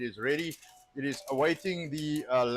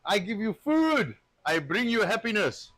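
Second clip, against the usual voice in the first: higher, louder playful boast; hammed-up boast, getting louder; mock boasting; 5 semitones higher, 4 dB louder than usual. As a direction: brag it up like a showman. Boasting mock rivalry with Elon.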